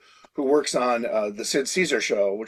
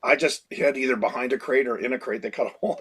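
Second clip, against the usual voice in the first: ordinary talk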